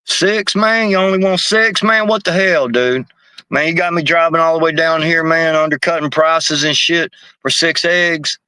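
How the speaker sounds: high, incredulous hustler squawk; mock outrage. Dealer outraged at small order.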